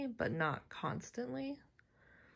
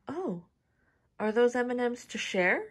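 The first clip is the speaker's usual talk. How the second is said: imitating mom; 5 semitones higher, 8 dB louder than usual. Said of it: "She's like".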